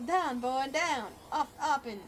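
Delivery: loud sharp command to a dog; shouted command. Acted. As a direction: bark the order. Colonel Sanders commands dog.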